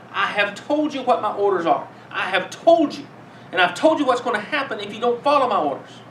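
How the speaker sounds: a judge laying down the law in court; stern warning. Retold or imitated. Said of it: "I've heard myself say that in co".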